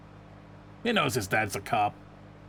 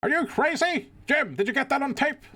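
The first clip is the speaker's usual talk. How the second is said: excited shriek; 13 semitones higher than usual. Acted. Reporter shrieks at the chaos.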